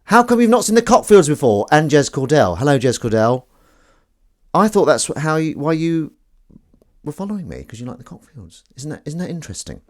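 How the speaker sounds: high, loud squeaky cat voice. Acted. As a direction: chat like a cheerful cat. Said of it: "my cat voice".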